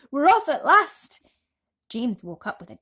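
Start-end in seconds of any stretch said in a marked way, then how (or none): 0.1-1.3 big drawn-out yell, much louder and higher; a creature's slow, booming shout of departure; joyful slow shout. A narrator's reading. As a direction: stretch the cry out in triumph. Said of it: "someone was shouting".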